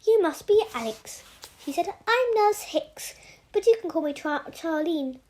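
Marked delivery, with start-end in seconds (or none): 0.0-1.2 put-on nurse greeting in a light, higher broad Australian accent. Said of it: "such a broad Australian accent". 2.1-5.2 put-on broad Australian accent. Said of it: "such a broad Australian accent".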